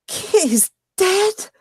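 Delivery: high, slow, stunned whisper of a question; shocked disbelief. Acted. Woman hearing her friend is dead, aghast. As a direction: gasp the words out in horror. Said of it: "her kind of shriek kind of cuts out into more of a gasp".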